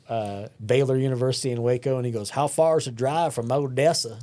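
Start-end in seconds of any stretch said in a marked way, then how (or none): 2.3-4.2 imitating a kid's thick West Texas twang; heavy West Texas accent. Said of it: "we don't all sound like that".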